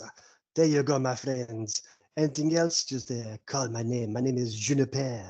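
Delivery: lightly put-on French accent. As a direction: play an obliging mock-French host. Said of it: "I knew he was putting on a voice".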